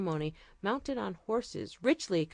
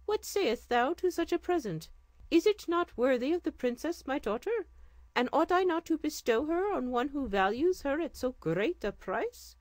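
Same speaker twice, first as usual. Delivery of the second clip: higher, stately king's voice; regal sultan; 7 semitones higher than usual. Acted. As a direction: speak as a gracious sultan. Sultan questions the vizier.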